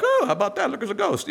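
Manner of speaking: mildly surprised, offhand remark; casual mock wonder. Preacher voicing how the fishermen did not react, mock casual. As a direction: toss it off like idle curiosity, a touch high. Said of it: "This is not like".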